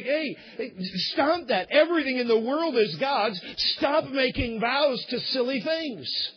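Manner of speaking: a touch of exasperated correction; mild scolding. Retold or imitated. Preacher voices Jesus telling people off for silly vows, mildly scolding.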